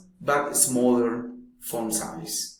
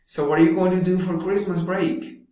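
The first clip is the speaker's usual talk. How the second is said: higher, quicker question as person A; person A asking; 6 semitones higher, faster than usual. Shown as a demonstration. Teacher reading person A in a dialogue. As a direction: brightly ask about the break, fast. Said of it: "Conversation one".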